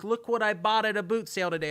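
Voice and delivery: high, loud showing-off voice; imitated proud bargain hunter. UK followers texting about their finds, high excited imitation. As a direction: mimic someone excited about a find. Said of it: "They're like".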